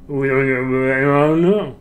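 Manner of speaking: very slow, wordless-sounding mumble; mumbled warble. Shown as a demonstration. Asking what the lips do during the sound, mumbled warble. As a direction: drag it into one wavering slur. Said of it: "like, warble and wiggle".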